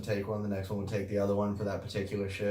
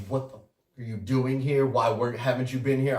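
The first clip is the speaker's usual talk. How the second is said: imitating a fuming boss, a bit louder; half-acted angry scolding; mock furious manager; 3 semitones higher, 4 dB louder than usual. Retelling the furious manager to friends, a mildly angry voice. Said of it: "the manager comes up to me fuming angry".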